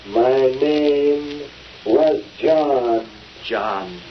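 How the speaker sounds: slow, hollow ghost voice; a hint of a ghostly spirit, drawn out slowly; sepulchral spirit voice. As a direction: moan it out like a spirit from the grave. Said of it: "the old sepulchral spirit man".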